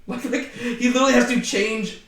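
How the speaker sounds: chuckling through the words; amused disbelief; laughing. Real, not acted. Laughs at the thought.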